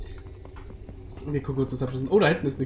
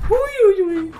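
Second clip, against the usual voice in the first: nervous exclamation; 14 semitones higher, 6 dB louder than usual. Real, not acted. Reacting to enemy attack.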